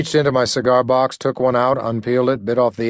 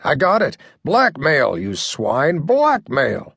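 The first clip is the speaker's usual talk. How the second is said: excited; 3 semitones higher, much slower than usual. Acted. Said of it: "I felt myself getting excited".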